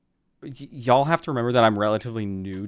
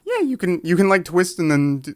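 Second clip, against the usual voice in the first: squeezed high voice; 6 semitones higher, 5 dB louder than usual. Shown as a demonstration. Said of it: "You have to go like this".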